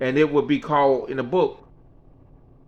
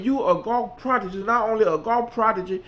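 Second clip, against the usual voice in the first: Mickey's voice; 9 semitones higher than usual. Retold or imitated. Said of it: "She said".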